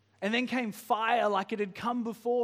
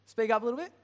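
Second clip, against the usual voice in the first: higher and louder call across the room; 4 semitones higher, 4 dB louder, much faster than usual. Real, not acted. Preacher calling to Chris far off in the foyer, louder. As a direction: raise your voice to reach the foyer.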